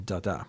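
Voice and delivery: "da, da" as short then long, soft and low; low, quiet "da, da", short-long; iamb demonstration. Shown as a demonstration. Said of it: "there's a little iamb at the end".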